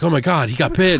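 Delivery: retold touch of alarm; panicked. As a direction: act out alarmed bystanders, lightly. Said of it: "everybody's panicking and shit".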